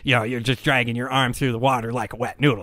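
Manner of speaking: lightly voiced nerd; a hint of a know-it-all lecturing. Know-it-all swimmer correcting the beginner, light nerd voice. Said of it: "I'll do the know-it-all nerd voice".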